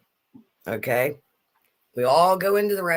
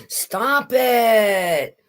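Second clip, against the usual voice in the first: mock shout; 4 semitones higher, 6 dB louder than usual. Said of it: "Or we'll go".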